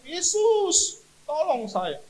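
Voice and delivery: high, loud drawn-out cry for help; shouting. Retold or imitated. Shaking patient shouts to Jesus, startling the next bed. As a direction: shout each name, then plead. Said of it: "Saya teriak".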